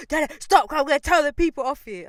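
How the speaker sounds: high, loud mimicked threat; mock her shouting at you; imitated shouting. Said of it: "Why are you shouting for?".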